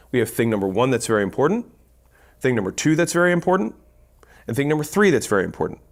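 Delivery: brief pause after each "very important"; quick phrases split by short pauses after "important". Shown as a demonstration. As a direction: list each point briskly, pausing between them to draw attention. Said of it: "when we pause this way".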